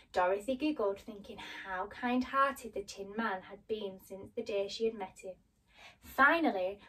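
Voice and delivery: storybook reading voice, lively and expressive; story narration. Acted. Reading a birthday story to Mum, storytelling voice. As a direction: read it like a bedtime tale for Mum.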